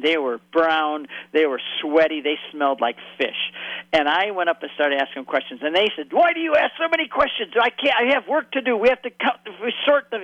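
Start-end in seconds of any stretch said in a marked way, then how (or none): 6.1-10.2 put-on higher-pitched English in a thick Hebrew accent; be the busy Israeli fisherman with a heavy Hebrew accent. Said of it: "in very thick Hebrew accent".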